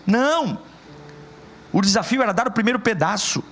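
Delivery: high, driving sermon voice; fervent Portuguese preacher; preaching at full force. Acted. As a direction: push every line up like a rising altar call.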